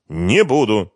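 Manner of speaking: flat, final "Не буду" with stress on НЕ; firm refusal. A narrator's reading. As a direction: say "Не буду" again, pressing on НЕ. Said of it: "твёрдо сказал Ренат".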